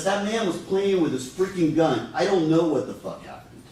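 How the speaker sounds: a hint of her distress on the call; imitating panic. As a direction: voice her rising alarm. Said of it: "Her voice, her inflection, everything changes".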